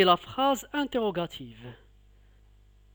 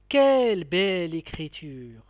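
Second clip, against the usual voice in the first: "Quelle belle écriture!" louder, Quelle punched then falling; admiring exclamation; 2 semitones lower, 4 dB louder than usual. Shown as a demonstration. Teacher repeating the exclamation, louder admiration. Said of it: "Je répète".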